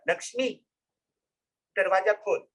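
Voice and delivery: lovingly. Acted. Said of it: "उसने प्यार से बोला".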